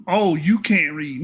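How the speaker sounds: slow, quoted taunt; mock accusation. Quoting the misreader's insult back at him, slow mock accusation. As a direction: hand his jibe back slowly, imitating him. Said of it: "you had the nerve to say".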